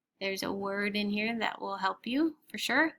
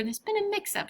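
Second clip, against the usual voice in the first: amused; 11 semitones higher than usual. Acted. Woman laughing at the error.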